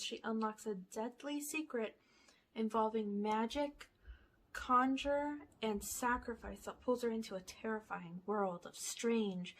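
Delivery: reading a movie blurb like a trailer; lightly dramatic back-cover read. Acted. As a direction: announce it like a trailer voice. Reads movie blurb aloud.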